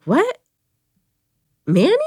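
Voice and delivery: high, loud cry of disbelief; shocked disbelief. Retold or imitated. Learning on the phone her brother died, loud shocked cry.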